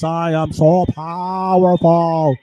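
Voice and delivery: a hint of a puffed-up big shot; mock swagger of a self-important dealer; smug drug dealer. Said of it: "The dumbass drug dealer thinks".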